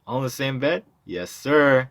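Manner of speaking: thrilled by the boast; excited exchange. Acted. Amazed question and proud answer.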